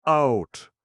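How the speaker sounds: high, loud scream. Acted. Elephant throwing the villain out, high full scream. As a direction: scream it at him full force. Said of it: "screamed Kabumpo".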